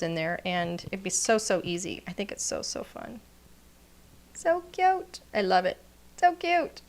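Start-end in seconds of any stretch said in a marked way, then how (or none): 4.3-5.8 high delighted "So cute"; gushing. Real, not acted. Gushing over her card. 6.2-6.8 high delighted "So cute"; gushing. Real, not acted. Gushing over her card.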